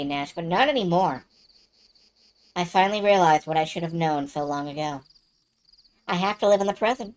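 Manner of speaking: subdued, even-voiced earnest monologue; Mia confiding. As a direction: confide old doubts steadily, then quiet resolve. Player voices Mia reflecting.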